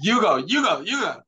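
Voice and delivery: high, loud, teasing repeat; playful insisting. Real, not acted. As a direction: push her friend to talk first, laughing.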